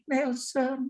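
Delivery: softly pleading call of the name. Retold or imitated. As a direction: imitate a gentle, pitiful appeal. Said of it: "suara itu seperti memohon, suara itu seperti". (panggilan lembut memelas)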